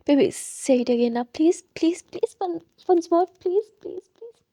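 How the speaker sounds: slow soft begging; a soft, drawn-out plea; pleading softly. Acted. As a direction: coax her sweetly, slow and soft. Character begs for it again.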